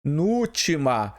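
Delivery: "penúltima" broken before a weighted NÚL; stressed syllable picked out. Shown as a demonstration. Teacher pointing out the strong syllable, stressed and separated. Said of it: "a sílaba forte está na penúltima".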